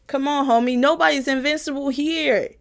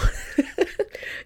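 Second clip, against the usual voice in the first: silly airy wheeze of a laugh; goofy breathy laugh; 7 semitones higher, 5 dB quieter than usual. Retold or imitated. Sister laughing in her brother's mock voice. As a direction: cackle like the brother. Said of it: "let me do my brother's voice".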